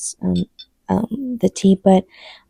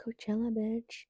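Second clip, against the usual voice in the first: breathy playful whisper; 2 semitones higher, 20 dB quieter than usual. Acted. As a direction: whisper it like a secret. Whispered aside after showing wristband.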